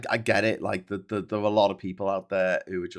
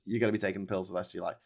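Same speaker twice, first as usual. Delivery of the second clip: fast blunt repeat; 3 semitones lower, 4 dB quieter, much faster than usual. Real, not acted. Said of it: "Whatever the fuck happens".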